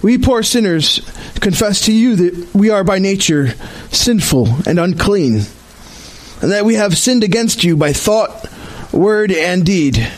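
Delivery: measured corporate prayer, deliberate phrasing; formal liturgical prayer with pauses; solemn confession prayer. Real, not acted. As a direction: lead the congregation in confession, unhurried.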